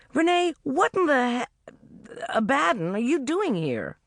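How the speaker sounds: lightly voiced heroine giving orders; heroine's voice. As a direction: heroine telling Jim off and getting on with the day. Heroine's exasperated question.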